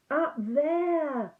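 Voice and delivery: high, loud, fearful wail; frightened cry. Acted. Piglet pointing out the heffalump to Christopher Robin, frightened. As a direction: Piglet wails it out, scared stiff.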